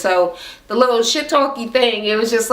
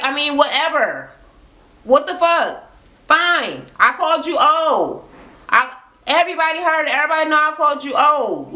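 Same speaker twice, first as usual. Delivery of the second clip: higher, fast, exasperated retort; retold so-what comeback, pitched up; defiant admission; 5 semitones higher than usual. He owns up to calling Golden old, defiant and higher.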